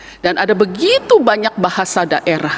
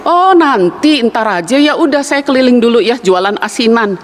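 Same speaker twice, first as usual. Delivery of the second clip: Betawi vendor; 3 semitones higher than usual. Retold or imitated. Vendor putting off the man in the well, lightly voiced. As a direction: casually put him off. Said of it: "si orang Betawi waktu denger".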